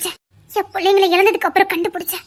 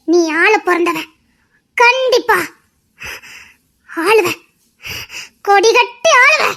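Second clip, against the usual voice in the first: rousing proclamation; 2 semitones higher, 5 dB louder, slower than usual. Acted. Prophetic declaration to hero.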